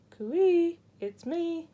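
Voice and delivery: high, loud eager call. A narrator's reading. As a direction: shout ahead to a friend. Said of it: "he called, swimming even faster".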